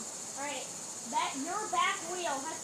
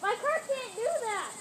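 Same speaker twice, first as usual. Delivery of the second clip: frustrated; 7 semitones higher, 7 dB louder than usual. Real, not acted. Car fails to go straight.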